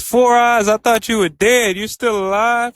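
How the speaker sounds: retold burst of amazement he's alive; surprised relief. Momo finding Akaran alive in the shrine, high surprised outburst.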